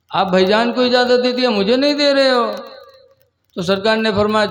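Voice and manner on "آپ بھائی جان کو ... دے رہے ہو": put-on urgent childlike plea. Boy repeats plea more urgently.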